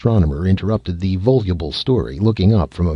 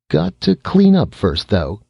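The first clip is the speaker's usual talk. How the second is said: put-on quick high boyish brush-off; pitched well up, hurrying away; evasive; 9 semitones higher, 3 dB louder than usual. Boy slipping past his parents, evasive and high.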